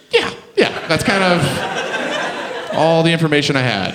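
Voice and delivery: very high squeaky agreement, drawn out slowly; sheepish admission. Retold or imitated. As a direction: act caught out, voice shooting way up. Caught out, acts his sheepish answer.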